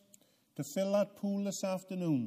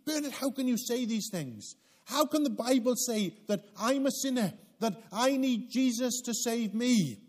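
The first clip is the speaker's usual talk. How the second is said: higher, fast mock protest; indignant listener; 5 semitones higher than usual. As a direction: play the offended listener objecting. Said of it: "getting angry with me".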